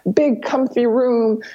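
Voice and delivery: slow, breathy whisper of a fantasy; dreamy whisper. Retold or imitated. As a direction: whisper it slowly like a sweet daydream. Friend dreaming of luxury hotel.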